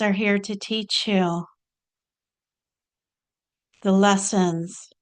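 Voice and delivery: deliberate spiritual teacher, long pauses between phrases; measured, spaced-out channelled teaching; channelled Babaji. Acted. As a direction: deliver a guru's message phrase by phrase. Channels Babaji's message to followers.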